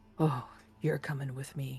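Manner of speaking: acted voice of a very large brute. Voicing a very large man who grabs a player: voicing a very large man. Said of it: "you turn around to see a very large man".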